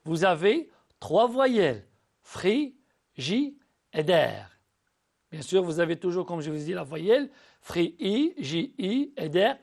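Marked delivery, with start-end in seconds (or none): 2.2-4.5 "Fri, ji et der" split slowly into separate beats, one pause between each syllable. Shown as a demonstration. Teacher sounding out a word for pupils, slowly syllable by syllable. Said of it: "Dans le mot frigidaire".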